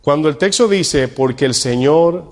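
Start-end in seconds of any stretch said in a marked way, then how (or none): 1.1-2.3 slow reading. Shown as a demonstration. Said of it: "lo voy a decir lento".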